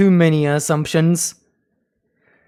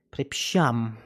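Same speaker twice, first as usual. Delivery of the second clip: a lower, softer Polish sorry; quiet apology; 5 semitones lower, 5 dB quieter than usual. Pretend. Apologising again to the stranger, a lower, softer sorry. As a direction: murmur the apology down low.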